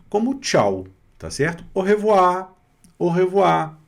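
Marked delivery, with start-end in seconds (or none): 1.7-3.8 higher, louder "Au revoir" with guttural R; throat R. Shown as a demonstration. Teacher recaps goodbye for students, "Au revoir" pitched up, guttural R. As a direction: model "Au revoir" high and clear, R in the throat. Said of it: "É só essa na garganta".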